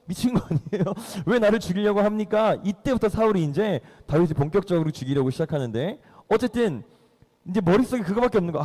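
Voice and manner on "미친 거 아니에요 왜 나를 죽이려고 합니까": lightly acted bewildered protest; mock flustered. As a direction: play a flustered young man, half laughing. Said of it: "다윗 당황스럽죠". (당황한 다윗을 가볍게 흉내)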